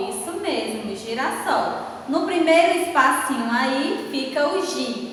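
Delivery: ordinary talk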